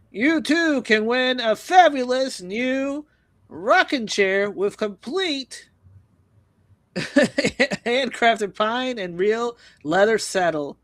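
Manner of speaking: slow, high game-show announcer pitch; drawn out like a TV prize reveal; booming prize announcer. Retold or imitated. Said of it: "win stupid prices".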